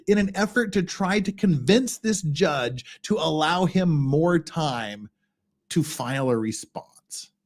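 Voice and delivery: creaky fried voice with a put-on lisp; mock valley girl fry, lisping every S; sustained vocal fry and faked lisp while reading a legal brief. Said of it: "me doing that vocal fry voice".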